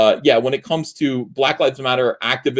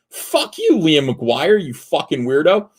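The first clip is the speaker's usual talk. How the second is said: angry outburst; 5 semitones higher, slower than usual. Real, not acted. Cursing at an absent critic.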